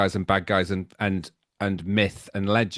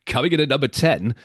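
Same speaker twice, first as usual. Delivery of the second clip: Alan Freeman; 3 semitones higher, 3 dB louder than usual. Retold or imitated. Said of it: "and he'd go".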